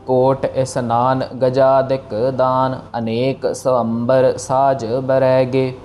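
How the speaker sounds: slow, measured chanting; slow verse recitation. Shown as a demonstration. Teacher reciting the verse slowly for students. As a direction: recite each word slowly and evenly. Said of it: "teacher recites the verse".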